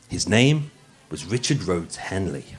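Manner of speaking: lightly put-on posh podcast voice; a hint of posh narrator. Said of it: "I'm putting on my posh voice for you today".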